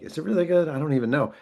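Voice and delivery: mock doubting. Author doubting his editor's praise, high mock disbelief. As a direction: ask it as if you can't believe it.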